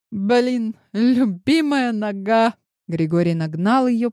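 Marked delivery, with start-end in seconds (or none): 0.1-2.5 higher, louder, drawn-out cry of pain; exclaiming. A narrator's reading. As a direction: yelp over a hurt leg. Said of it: "воскликнула". (восклицание, выше и громче, медленно)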